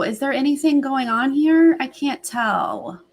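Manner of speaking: ordinary delivery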